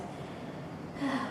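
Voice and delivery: breathy frustrated sigh; exasperated sigh. Acted. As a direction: let out a performed sigh of annoyance. Gives up on whole attempt.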